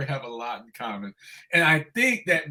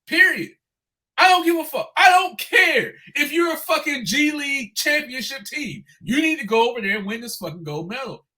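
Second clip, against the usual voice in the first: much higher and louder, swearing in a real temper; furious rant; 7 semitones higher, 4 dB louder than usual. Real, not acted. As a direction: blow up about the loss, hammering every line. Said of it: "I'm fucking pissed".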